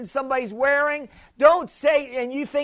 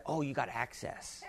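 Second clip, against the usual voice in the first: put-on 1 girl voice; 10 semitones lower, 17 dB quieter than usual. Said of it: "she said".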